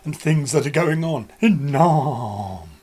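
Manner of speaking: slow, drawn-out show intro; announcer voice. Acted. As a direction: announce it like a presenter.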